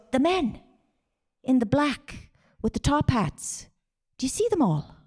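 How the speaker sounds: high-pitched, awed voice of a sick dad; retold hallucinating father. Dad in hospital shows his child the men in black, high and hushed in awe.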